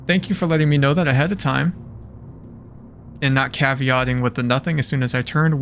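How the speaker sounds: loud, fast sarcastic thanks; dry mock gratitude to the game. Real, not acted.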